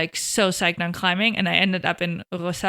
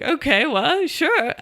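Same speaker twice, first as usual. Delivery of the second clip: higher, breezy mock-parent shrug; imitating easygoing parents; 8 semitones higher, 4 dB louder, slower than usual. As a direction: play the parents giving in with a casual shrug. Voicing her parents' easy agreement.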